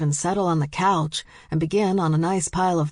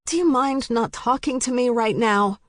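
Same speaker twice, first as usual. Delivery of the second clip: snapping; 6 semitones higher than usual. A narrator's reading. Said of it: "she snapped".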